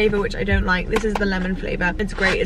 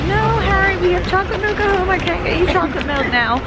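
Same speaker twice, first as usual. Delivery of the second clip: higher, firm mum telling off; lightly voiced scolding mother; stern mum; 9 semitones higher than usual. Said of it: "she was like".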